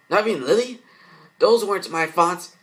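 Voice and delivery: high, loud frightened protest; alarmed realization. Acted. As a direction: recoil from the thought. Girl realizes voice not hers.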